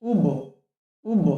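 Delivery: উব with the ব bounced out at the end; উব, closing ব rebounds with a knock; উব with a clear qalqalah bounce; qalqalah reading. Shown as a demonstration. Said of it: "এমন কলকলা করে পড়তে হবে".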